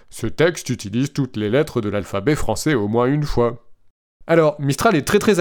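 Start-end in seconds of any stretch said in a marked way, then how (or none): 0.1-3.7 flat, even machine voice; robot voice. Retold or imitated. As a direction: read it like a chatbot. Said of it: "avec ma belle voix de robot".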